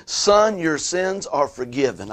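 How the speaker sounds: a measured pronouncement of forgiveness; Jesus's pronouncement. Retold or imitated. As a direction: proclaim it slowly as a preacher quoting Jesus. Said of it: "Jesus told the paralytic".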